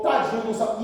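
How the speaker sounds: softly murmured sympathy; mock pity. Imagined pastor pitying the preacher, softly. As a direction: imitate gentle pity. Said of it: "Nunca o pastor ou alguém chegou".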